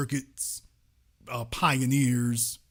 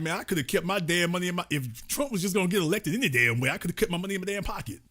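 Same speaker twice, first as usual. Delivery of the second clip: complaining rich donor; 3 semitones higher, much faster than usual. Retold or imitated. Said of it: "Morgan is like".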